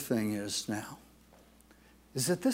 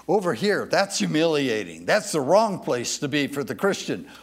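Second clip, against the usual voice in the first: emphatic preaching; 2 semitones higher, 6 dB louder than usual. Acted. Preacher contrasting wrong place.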